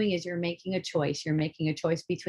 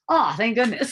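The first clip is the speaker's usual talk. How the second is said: relieved shout; 4 semitones higher, 4 dB louder than usual. Retold or imitated. Relief at death being illusion.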